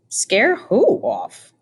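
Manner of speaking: high, slow and puzzled, as if baffled; puzzled question. A narrator's reading. Edward silently asks who he must scare, slow and bewildered. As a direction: stretch it out in wide-eyed confusion.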